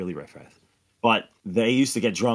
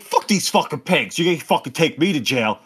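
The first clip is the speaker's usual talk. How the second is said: slightly raised, imitated rant; retold mild yell; 3 semitones higher than usual. Friend ranting at cops, toned-down mock yell. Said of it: "my good friend starts screaming".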